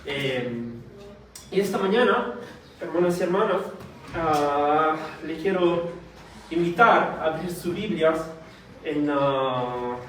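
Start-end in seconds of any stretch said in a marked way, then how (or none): none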